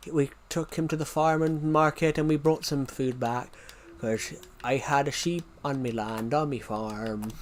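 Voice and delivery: broad rustic regional British accent; exaggerated thick local accent. Shown as a demonstration. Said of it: "how thick some people's accents can be".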